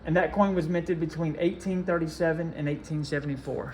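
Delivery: running out of breath mid-sentence; rushing, breath running out. Real, not acted. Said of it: "Sorry, I lost my breath there".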